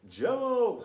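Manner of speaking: sudden high, loud call of Jell-O; excited high shout to kids; shouted cue. Shown as a demonstration. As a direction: yell it out to set the class shaking. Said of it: "When I say Jell-O".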